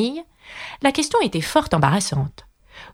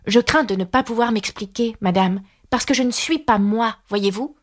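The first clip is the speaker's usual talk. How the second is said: lightly voiced Alice, higher pitch; Alice, polite and apologetic; 4 semitones higher than usual. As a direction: explain yourself politely, a little higher. (Alice, voix aiguë et polie)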